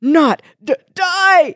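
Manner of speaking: stammered, rising to a loud cry; poisoned hero sputtering his defiance. Acted. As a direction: choke the words out in bits. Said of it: "he sputtered".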